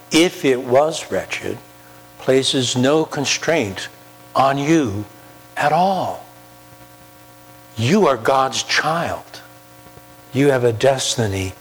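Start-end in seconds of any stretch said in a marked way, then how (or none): none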